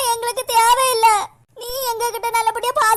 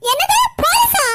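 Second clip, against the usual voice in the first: higher, startled question; shocked; 6 semitones higher than usual. Acted. Scheming sister startled by the police threat. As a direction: gasp at the word police.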